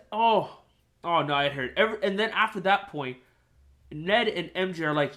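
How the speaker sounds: usual speaking voice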